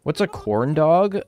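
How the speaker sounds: loud, playful indignation about the gravy; mock outrage. Real, not acted. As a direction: act offended, hamming it up.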